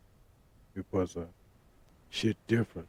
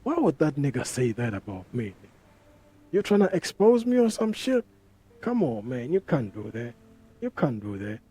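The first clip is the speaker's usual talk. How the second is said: Motsepe. Acted. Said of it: "him as Umotsepe, he's like".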